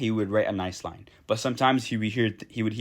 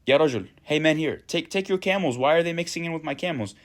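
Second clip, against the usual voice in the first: put-on annoyed girl; 5 semitones higher than usual. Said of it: "she goes".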